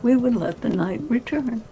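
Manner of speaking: measured, unhurried reading over music; story narration. A narrator's reading. Narrator reading Gimli and Legolas's exchange aloud, unhurried. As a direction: read it like an audiobook narrator.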